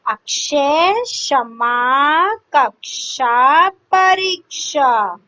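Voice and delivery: क्षमा and कक्षा drawn out slowly; carefully sounded. Shown as a demonstration. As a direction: spell out the क्ष cluster slowly. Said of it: "क और श बन के". (क्ष को धीरे-धीरे स्पष्ट बोलना)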